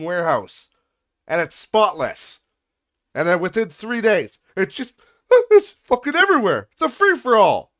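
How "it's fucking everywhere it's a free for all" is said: higher, louder frustrated outburst; exasperated rant. Real, not acted. Venting to viewers about the warehouse mess, exasperated. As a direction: vent it, fed up.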